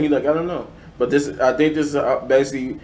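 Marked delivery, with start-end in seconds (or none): 0.3-0.7 a mild British "I don't know"; a hint of British in the repeat; British accent. Repeating Jefferson Jackson's shrug in a mild British accent. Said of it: "in his British accent".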